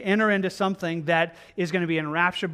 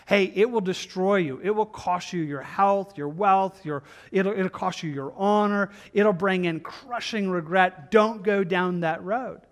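urgent warning. Acted. Voicing a father's urgent warning.

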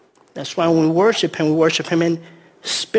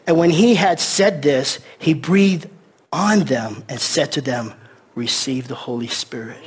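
slow scripture reading; 3 semitones lower than usual. Acted. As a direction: read it slowly, dropping to a hush.

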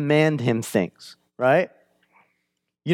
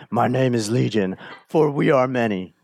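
a light hint of a demon voice; demonic voice. Preacher repeating the demon's reply, lightly voiced demon. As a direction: voice the demon only lightly, near plain. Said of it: "This demonic voice".

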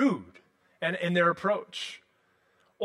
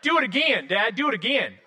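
higher, imitated little kid's southern twang; child's southern accent; 4 semitones higher, 3 dB louder than usual. Three-year-old asking dad to throw her around, imitated southern accent. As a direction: mimic a small child begging with a southern accent. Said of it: "she has a southern accent".

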